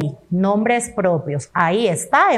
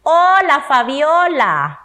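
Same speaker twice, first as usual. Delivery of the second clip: high, loud "Hola", then a slow, falling "Fabiola"; exclaimed greeting; 4 semitones higher, 4 dB louder, slower than usual. Shown as a demonstration. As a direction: call out hello to Fabiola with delight. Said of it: "¿Otra vez?".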